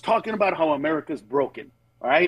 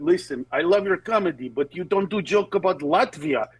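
a put-on Eastern European fan voice, pitched up; mimicking a fan; 2 semitones higher than usual. Comedian imitating a fan asking for a Latvia joke. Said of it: "and he went".

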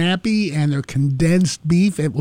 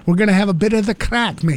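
put-on Irish accent; 2 semitones higher, faster than usual. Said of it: "My Irish accent is bad".

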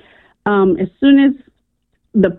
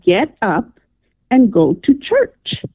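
slower, more insistent GO TO CHURCH; stronger command; slower than usual. Retold or imitated. Retelling the voice's second call to get up, stronger. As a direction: draw out "go to church" as a firmer order. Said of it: "it was stronger".

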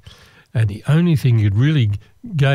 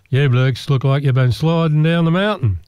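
put-on a light Australian accent as the bartender; 3 semitones higher than usual. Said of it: "That's my Australian voice".

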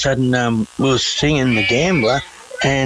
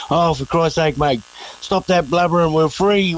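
teasing, rising mock rebuke; mock scolding; 5 semitones higher than usual. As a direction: rib your crying mate, climbing higher. Teasing crying mate on release.

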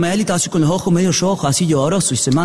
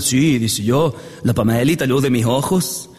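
lightly voiced proud old father, lower pitch; viejo orgulloso; 5 semitones lower than usual. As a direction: brag to everyone about your daughter, low and measured. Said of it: "viejos orgullosos que andan contando a todo el mundo". (padre orgulloso que presume)

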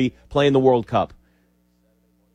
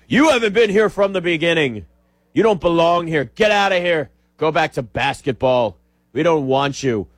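snobby gatekeeper fan. Retold or imitated. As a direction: sneer at newcomers, playing the elitist fan. Gatekeeping hockey fan voiced.

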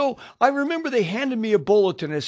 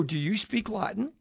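softer, hushed mock whisper; retold whisper; 7 dB quieter than usual. Leaning over in church to ask his hosts, hushed. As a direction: lean in and ask under your breath. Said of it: "I'm whispering again".

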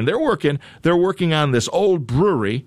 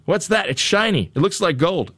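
higher, wide-eyed wonder at something shiny; mock surprise; 6 semitones higher than usual. Host acting out the jackhammer worker spotting gold, higher surprised.

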